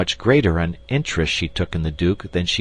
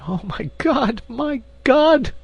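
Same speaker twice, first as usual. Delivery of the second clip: much higher, rising cry of anguish; slower than usual. A narrator's reading. Queen crying out in anguish to the duke. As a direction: cry out, overwhelmed. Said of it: "cried Anne of Austria".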